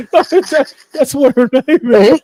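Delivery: laughing high and loud. Real, not acted. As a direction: crack up while saying it. Host laughs at a viewer's name.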